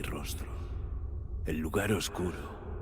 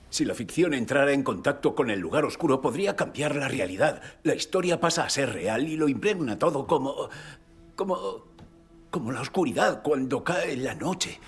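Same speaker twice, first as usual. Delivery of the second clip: agitated warning; 3 dB louder than usual. Acted. Explica la amenaza con angustia.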